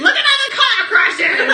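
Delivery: put-on high, loud, laughing old-timey voice; 1930s voice. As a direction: ham up a 1930s newsreel. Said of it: "I love doing that nineteen thirties voice".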